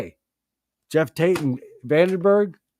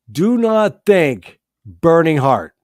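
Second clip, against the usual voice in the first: emphatic command; 4 semitones higher, 9 dB louder, slower than usual. Real, not acted. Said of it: "emphatic command to listeners".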